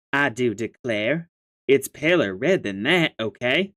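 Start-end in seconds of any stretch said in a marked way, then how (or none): 0.1-1.3 slow drawled Southern belle declare; a slow, mock-genteel Southern belle aside; silly Southern accent. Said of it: "your silly accent".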